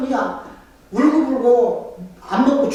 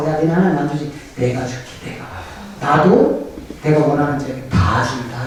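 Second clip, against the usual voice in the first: sly devil voice; 7 semitones lower than usual. Retold or imitated. Voicing the devil's offer.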